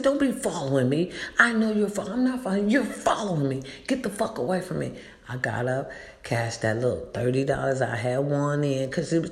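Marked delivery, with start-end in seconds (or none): 0.0-5.0 higher, heated retelling of telling someone off; retold angry confrontation. Woman confronting the man following her, re-enacted anger. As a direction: act out warning a follower away.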